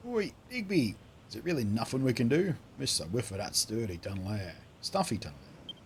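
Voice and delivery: lightly voiced rustic miner; put-on accented miner voice; grumbling miner character. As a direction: call to a mate, then grumble.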